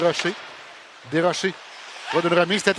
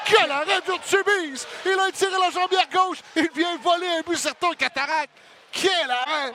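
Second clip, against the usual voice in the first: excited sports commentary; 5 semitones higher than usual. Real, not acted. Play-by-play, big save.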